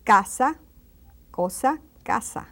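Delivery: casa, cosa with C said as a hard K. Shown as a demonstration. Teacher showing C before A or O, as K. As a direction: hit a K sound starting casa and cosa. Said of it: "the pronunciation becomes like a K".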